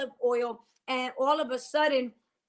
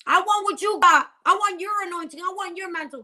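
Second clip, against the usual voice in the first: higher-pitched covetous begging, acted out; mock envious wanting; 5 semitones higher than usual. Pastor mimics people coveting another's anointing, mock envious wanting.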